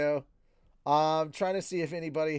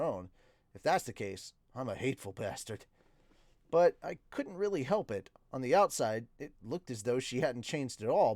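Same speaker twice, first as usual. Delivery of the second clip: measured audiobook-style narration; story narration. A narrator's reading. Streamer reading a novel to viewers, story narration. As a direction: read the story aloud in the narrator's voice.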